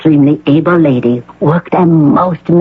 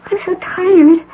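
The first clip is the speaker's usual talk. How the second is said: tearful. Acted. Patient pleading, near tears.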